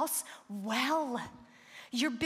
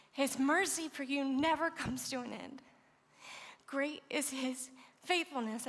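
holding back tears; 2 semitones higher than usual. Real, not acted. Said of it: "I didn't expect to cry".

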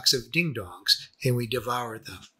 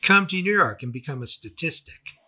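sarcastic; 2 semitones higher than usual. Retold or imitated.

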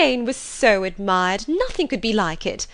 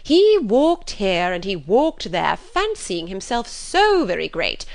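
bitter indignation; 2 semitones higher, 4 dB louder than usual. Acted. Mother complaining of Darcy to husband, indignant. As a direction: huff with exaggerated outrage. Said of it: "with much bitterness of spirit and some exaggeration".

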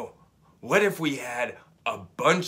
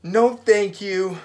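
sighing; 6 semitones higher, 8 dB louder, slower than usual. Acted. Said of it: "sighed Camilla".

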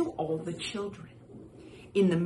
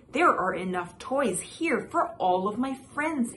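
excited exclaim; 4 semitones higher than usual. Acted. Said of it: "he exclaimed".

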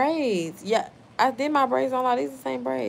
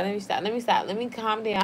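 tipsy; 4 dB quieter, faster than usual. Real, not acted. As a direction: talk like you've had a few. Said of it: "I'm drinking".

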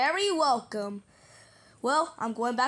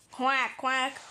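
duck quack. Pretend. Plays Dave the duck.

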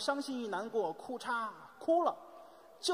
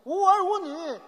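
loud, raised-pitch stage outburst; angry reproach; 9 semitones higher, 10 dB louder, slower than usual. Acted. Husband berating his wife for having no children, angry reproach. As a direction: burst out in theatrical blame.

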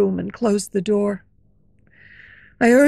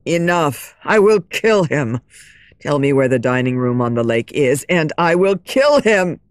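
low, louder threatening voice; angry shout; 8 semitones lower, 4 dB louder than usual. Acted. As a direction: threaten to kill, furious. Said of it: "shouted Raoul".

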